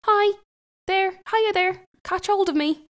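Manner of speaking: high, loud, drawn-out yell; the shepherd hollering back to Katya; yelled call. Acted. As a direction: shout it across the field, stretching hiya. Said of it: "the shepherd yelled back at Katya".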